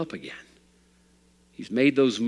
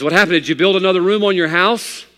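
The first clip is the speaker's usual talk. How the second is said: loud and higher, astonished; amazed question; 7 semitones higher, 7 dB louder than usual. Acted. Preacher to the beaming father, loudly amazed. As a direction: ask it wide-eyed with surprise.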